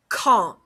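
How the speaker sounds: "quand" said French-style, ending on a nasal vowel with no D; silent D. Shown as a demonstration. Teacher repeats the French word for students, silent D. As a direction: say "quand" with the final D left silent. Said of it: "The D is pronounced silent".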